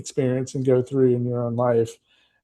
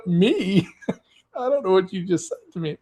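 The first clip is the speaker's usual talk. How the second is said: higher, laughing, a bit fast protest; laughing disbelief; 6 semitones higher than usual. Retold or imitated. Visitor protesting back at the local, high and laughing. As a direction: laugh it off in mock outrage. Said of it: "I'm like".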